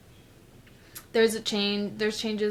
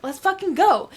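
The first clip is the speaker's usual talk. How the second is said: higher and louder, hyped-up cheer; 8 semitones higher, 7 dB louder than usual. Retold or imitated. Her hyped-up self starting the challenge, excited shout. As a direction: fire yourself up. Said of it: "And I'd be all hyped up".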